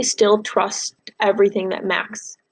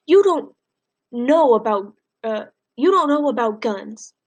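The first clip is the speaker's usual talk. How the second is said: grandma arguing with her husband, rising then settling; alarmed grandmother. Acted. Grandma protesting in the novel.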